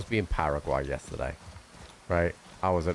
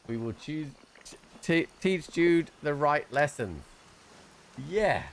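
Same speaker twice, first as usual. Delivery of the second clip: put-on baby talk; 7 semitones higher, slower than usual. Baby talk to his son.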